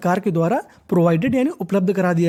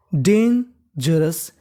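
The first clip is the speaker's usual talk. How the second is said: slow model word; 4 semitones lower, much slower than usual. Shown as a demonstration. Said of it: "तो मीनिंग बन गई".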